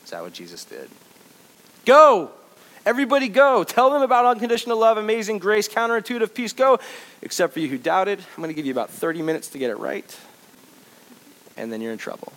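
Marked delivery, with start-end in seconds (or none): 1.9-8.2 much higher, louder, hammed-up commands; mock shouted orders. Pretend Jesus ordering disciples out, shouting. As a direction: shout them out the door.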